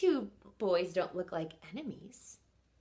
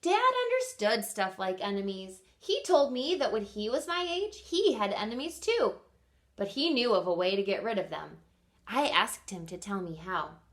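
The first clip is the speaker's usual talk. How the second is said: expressive read-aloud for kindergartners; story reading. Acted. Teacher reading Enemy Pie to her class, lively storytelling. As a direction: read it like story time on the rug. Reads picture book aloud.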